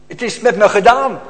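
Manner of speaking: loud, despairing outcry of a lost soul; anguished cry. Acted. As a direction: cry it out as a man who knows he's done for. Despairing sinner's cry quoted.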